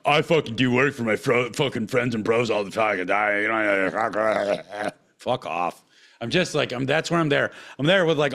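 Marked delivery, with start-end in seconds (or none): 0.0-5.8 lightly voiced offended tattoo artist, slowing down; a hint of a defensive tattoo artist; tattoo artist parody. Tattoo artist defending himself to the ranter, lightly voiced. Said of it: "tattoo artists blowing up my fucking email".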